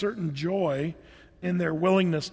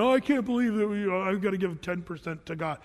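huffy and puffy. Retold or imitated. Preacher mimicking people who resent tithing, huffy. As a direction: imitate someone put out, fading to normal. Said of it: "people get all huffy and puffy".

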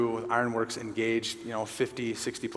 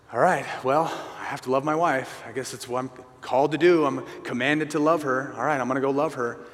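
grudging obligation. Retold or imitated. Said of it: "If we have the mindset of".

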